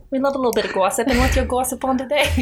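bad Boston accent, quick; hammy fake Boston accent. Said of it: "my bad Boston accent".

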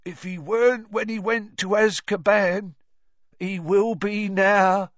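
slow, lightly voiced grim driver; Ern's slow voice. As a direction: drag the words out grimly. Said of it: "said Ern in his slow voice".

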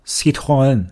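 Citroën in French, sit-ro-en with a uvular R; French pronunciation. Shown as a demonstration. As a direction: say Citroën the French way, three syllables. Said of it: "正确的法语读音应该是". (法语发音，Citroën)

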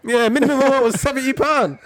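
laughing through the words; giggling while telling it. Real, not acted.

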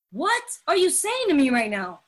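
incredulous, at a normal volume; mildly dramatic challenge; dramatic disbelief. Retold or imitated. Speaker reacting to the program's teaching, in dramatic disbelief. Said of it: "maybe I'm a little overly dramatic".

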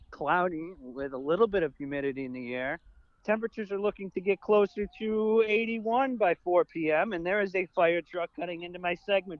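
mock weatherman read; weather segment. Co-host resuming his weather segment after interruption, mock forecaster. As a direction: carry on the forecast and hand back like an anchor. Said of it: "I'm trying to do a weather segment".

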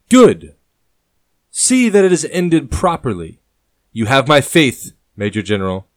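delighted by the King's Guard; rising tone. Acted. King hears the King's Guard is going, excited and loud. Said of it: "brings a rise in the sovereign's tone".

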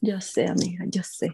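hushed, conspiratorial whisper. Pretend. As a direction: whisper it like a secret. Joking whispered reply.

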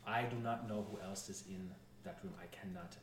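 put-on measured, halting French-accented advisor; a light French accent, weighing each thought. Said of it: "I was doing a French accent".

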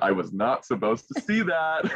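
laughing through the repeat; giggling as he says it. Retold or imitated.

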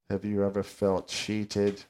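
a half-hearted English punk sneer; a punk singer imitation. Host quotes a punk singer in a weak English accent. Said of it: "Bad English and accent, I'm sorry".

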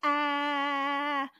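ah held out loud and voiced; sustained voiced vowel ah. Shown as a demonstration. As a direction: sing out ah so the throat buzzes. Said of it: "I want you to say".

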